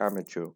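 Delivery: amateur said as AM-uh-chur; pronunciation demo. Shown as a demonstration. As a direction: model the word amateur, ending in a "chur" sound. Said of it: "ये इसकी pronunciation होती है".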